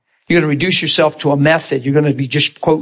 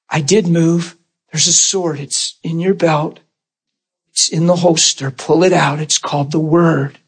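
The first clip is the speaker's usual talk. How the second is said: God's reply. Pretend. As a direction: speak as God, calm and firm, pitched down. God answering the believer, voiced.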